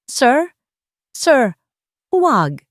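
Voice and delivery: high, loud frantic begging; desperate pleading. Acted. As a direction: beg them not to take her. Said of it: "Pagsusumamo ni Jovelyn".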